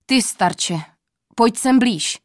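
put-on loud commanding call to the old man; booming royal summons; king calling out. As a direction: call him over so the forest shakes. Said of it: "zvolal, až les se třás".

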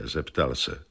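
plain reading voice

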